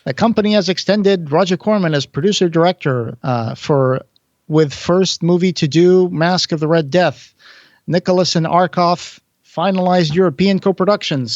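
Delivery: mock announcer delivery. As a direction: announce it like an old trade bulletin. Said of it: "this is my announcer voice".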